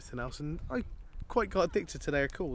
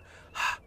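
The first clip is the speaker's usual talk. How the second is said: steady breathy exhale from the diaphragm; a smooth controlled breath out. Shown as a demonstration. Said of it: "like this, you go".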